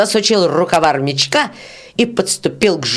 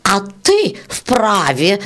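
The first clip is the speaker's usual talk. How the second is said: hissed; 4 semitones higher, much slower than usual. Acted. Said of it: "зашипела жужелица".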